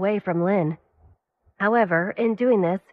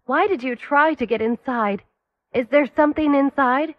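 urgent questioning that climbs higher; rising alarm; 5 semitones higher, 4 dB louder than usual. A narrator's reading. To the doctor, demanding why he cut her, urgent. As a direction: press him, voice rising.

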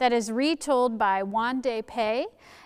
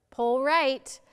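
calling orders, building louder and higher; shouted commands; 4 semitones higher, 7 dB louder, slower than usual. A narrator's reading. Head steers Arms across the river, shouting. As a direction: give rowing orders, stronger on the second. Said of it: "Head shouted to Arms".

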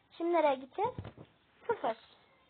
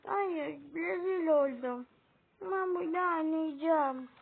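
ağlayarak, yavaşça; utanıp ağlar gibi söyle; ağlamaklı; 2 semitones higher than usual. Acted. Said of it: "sen ağlarsan". (rezil oldum diye ağlayan kız)

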